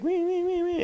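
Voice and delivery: high, thin imitated whimpering of a scared dog. Mimicking the cowering dog in his dream, high whimpers. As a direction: squeak it out like a cowering little dog. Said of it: "and it's, like, cowering".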